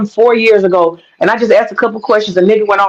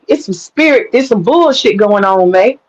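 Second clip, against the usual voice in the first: spirit voice. Retold or imitated. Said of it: "Spirit was speaking".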